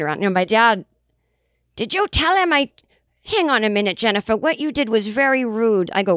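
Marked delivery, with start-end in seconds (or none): 1.8-5.9 imitating angry dad. Dad scolding her over congressman.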